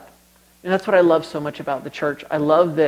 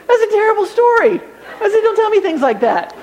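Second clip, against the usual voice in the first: laughing; 3 dB louder than usual. Real, not acted. Mock complaint while still laughing.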